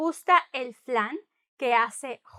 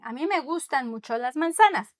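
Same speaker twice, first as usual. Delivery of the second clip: a mí me gustan mucho, quicker, stress on me; emphatic a mí; faster than usual. Shown as a demonstration. Teacher demonstrating emphatic liking, brisk. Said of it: "I'm emphasizing".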